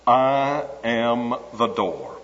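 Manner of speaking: "I am the door" slow and measured, each word apart; slow weighty quote. Shown as a demonstration. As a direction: let "I am the door" sink in slowly. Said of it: "concentrate on this simple four-word expression".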